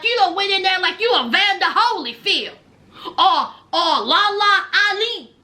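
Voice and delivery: talking through laughter; laughing roast. Real, not acted. Host laughing at Ty's fight bragging. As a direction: laugh while you mock her.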